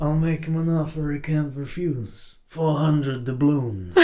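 soft-spoken, slowing pirate godfather; hammed-up mafia don turned pirate. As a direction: make the threat as a comic pirate mob boss. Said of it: "combining the mafia voice with the pirate voice".

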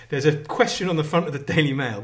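normal talking voice

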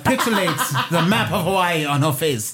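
hammed-up apologetic Asian accent; halting, badly faked Asian accent; mock Asian accent. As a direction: put on a bad Asian accent, close to laughing. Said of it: "That was terrible. I lost it at the end of that impression".

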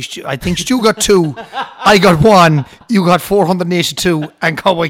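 laughing about the selfie tally. Real, not acted.

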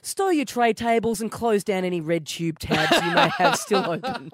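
lightly voiced cabin announcement; mock Qantas in-flight announcement; flight attendant. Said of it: "brought my own in-flight entertainment".

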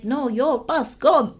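lightly voiced, slow ticket clerk; slow imitation of a foreign clerk; imitating curt clerk. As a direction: deliver it slowly, word by word, as a mock refusal. Imitates ticket clerk's limited English.

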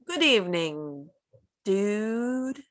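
slow mock British greeting; attempted British accent. Shown as a demonstration. Trying a British greeting on a friend, slow mock accent. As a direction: slowly try on a British accent. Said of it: "in a British accent?".

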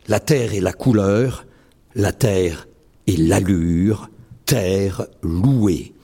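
measured litany recital; poem recital. Acted. Poet closing his reading with a litany, declaiming. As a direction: chant the repeated la terre lines.

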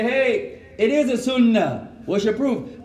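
imitating someone demanding proof; mock challenger. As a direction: voice the smug questioner. Mocking people who celebrate the birthday.

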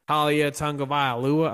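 hammed-up Auburn accent on a name. Shown as a demonstration. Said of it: "I'm doing my best Auburn accent".

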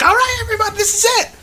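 very high, strained call to a crowd; imitated movie shout. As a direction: mimic a man rallying everyone. Voices movie character calling out.

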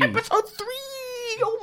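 high, slow, laughing repeat. Real, not acted. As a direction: squeak it out through laughter. Laughing echo of episode three.

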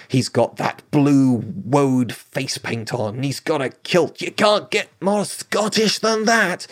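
mock a Scot with a bad Scottish accent; poor Scottish accent. Historian mocking Braveheart's look in a bad Scottish accent. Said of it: "That was a very poor attempt at a Scottish accent".

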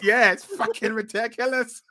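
hammed-up Irish accent, punched out. Fan repeating the imagined wrestler promo, hammed-up Irish accent. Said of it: "in that Irish accent".

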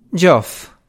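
understated fond greeting; affectionate exclamation. A narrator's reading. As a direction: exclaim the name with a touch of fondness. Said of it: "esclamò la duchessa in tono affettuoso".

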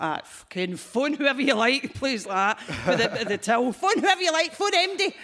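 boss voice. Retold or imitated. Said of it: "he was like".

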